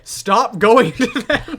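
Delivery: laughing plea. Retold or imitated. Player begging others to leave the character, laughing slow plea. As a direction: beg through laughter. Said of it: "And I'm like".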